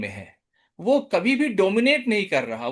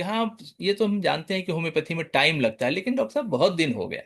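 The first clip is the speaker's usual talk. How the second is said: polite patient; 3 semitones lower, 3 dB quieter, faster than usual. Shown as a demonstration. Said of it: "ये बड़ा polite है".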